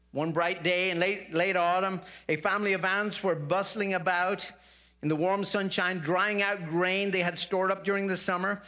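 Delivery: lively storytelling voice; story narration. Acted. Pastor tells the congregation Aesop's fable, lively. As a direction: tell the fable with lightly voiced characters.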